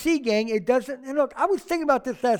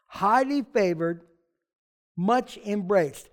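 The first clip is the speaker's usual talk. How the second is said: slow deliberate repeat; slower than usual. Shown as a demonstration. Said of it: "Or in the English".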